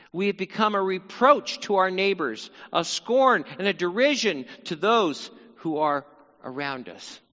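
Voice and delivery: measured public reading of a psalm; solemn Bible reading; scripture reading. Acted. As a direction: read it like a lament from the pulpit. Reads the psalm aloud.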